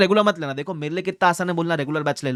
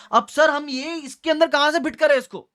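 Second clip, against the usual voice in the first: much higher, pleading student imitation; mock student whine; 8 semitones higher than usual. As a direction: play the confused student, pitched up. Student's question mimicked. (ऊँची आवाज़ में उलझे छात्र की नकल)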